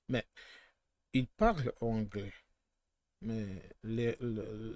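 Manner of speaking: halting French with a foreign accent; rusty, non-native French accent. Real, not acted. Speaker showing Quebec speaks French, in rusty accented French. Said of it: "Sorry for my terrible accent".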